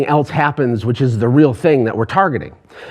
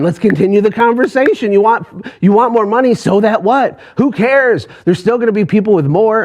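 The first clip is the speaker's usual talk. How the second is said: pushy coach challenge; 5 semitones higher than usual. Retold or imitated. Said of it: "he got really frustrated with me".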